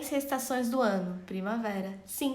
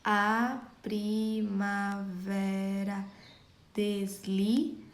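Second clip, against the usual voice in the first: slow scansion; much slower than usual. Shown as a demonstration. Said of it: "Só comprovando aqui".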